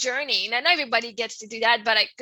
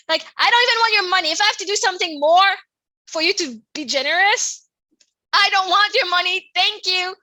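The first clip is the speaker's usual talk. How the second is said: fast, loud and higher, fed up; real indignation; 4 semitones higher, 4 dB louder than usual. Real, not acted. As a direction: push it out, fed up and defiant. Fed up with the coach's condition.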